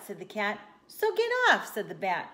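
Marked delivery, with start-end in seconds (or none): 0.9-1.7 much higher and louder character yell; indignant order. Acted. Bat ordering the cat off the mat, indignant order. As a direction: shoot the pitch up and yell it.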